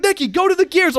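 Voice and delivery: high, loud exasperated yell; friend shouting. Retold or imitated. Friend yelling directions over voice chat, high and loud. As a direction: yell the instruction impatiently. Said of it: "we just start shouting".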